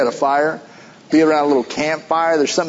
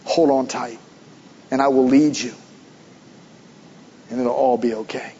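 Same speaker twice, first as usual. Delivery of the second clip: tender reassurance; 4 semitones lower than usual. Acted. God's gentle reply to believer.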